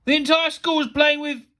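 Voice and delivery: loud, high indignant protest; appalled outrage. A narrator's reading. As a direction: break off, too appalled to finish. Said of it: "he could barely bring himself to say".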